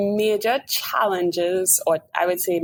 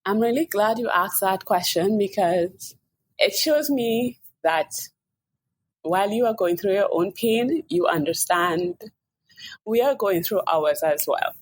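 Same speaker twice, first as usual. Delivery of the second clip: holding back tears, voice slowing; emotional, close to crying; 3 semitones higher than usual. Real, not acted. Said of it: "Sorry if I sound like I'm crying. I am".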